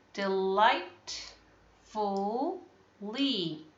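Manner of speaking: delightfully stretched very slowly; slow echo. Shown as a demonstration. Teacher modelling delightfully for pupils, very slow. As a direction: repeat delightfully slowly for the class. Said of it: "We can break it down like this".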